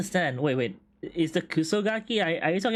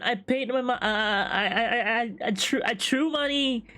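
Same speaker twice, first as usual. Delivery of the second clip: mock despair rant; 5 semitones higher than usual. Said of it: "And I'm so angry. I'm so mad. I'm so sad".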